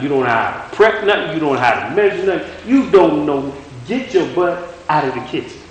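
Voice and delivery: lightly voiced coach-dad scolding; the Lord. Preacher voicing the Lord scolding him, a hint of coach-dad. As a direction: tick off each failing like an exasperated coach. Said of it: "kind of like a coach slash dad".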